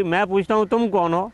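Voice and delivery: high, insistent, rising on تم; echoed angry demand. Acted. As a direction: throw the same angry question straight back. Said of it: "تو آواز آئی".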